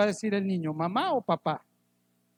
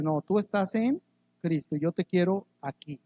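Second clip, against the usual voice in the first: a hint of God's gentle voice; mild steady reassurance; God reassuring. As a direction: calmly reassure as God would. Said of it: "Y Dios dice".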